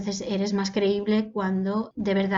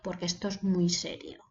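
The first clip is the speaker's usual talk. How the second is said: serious and slow; 3 semitones lower, 5 dB quieter than usual. Shown as a demonstration. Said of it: "el ritmo va a ser despacio".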